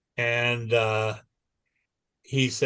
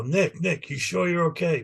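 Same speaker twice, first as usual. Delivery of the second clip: higher, mock-concerned teasing; mock taunting; 5 semitones higher than usual. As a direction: needle him with fake concern. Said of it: "then he starts taunting me".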